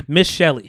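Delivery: "Miss" said with a firm falling push; showing how folks say "Miss" before the name; stress on Miss. Shown as a demonstration. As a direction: lean on "Miss" before "Shelley". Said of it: "this is how niggas talk like that".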